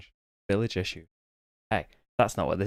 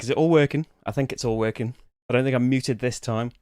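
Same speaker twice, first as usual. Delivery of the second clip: slightly breathless talk; out of breath. Real, not acted. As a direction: speak a bit winded. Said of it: "Bit out of breath".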